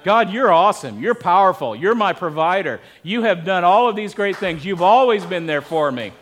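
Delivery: sincere, confident praise prayer; bragging on God. Shown as a demonstration. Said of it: "bragging on God".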